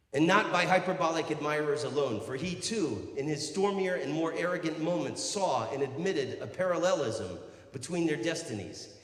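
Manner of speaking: projected, measured recital; declaimed book reading. Acted. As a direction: read it out grandly to a crowd. Reads aloud from a Byron biography.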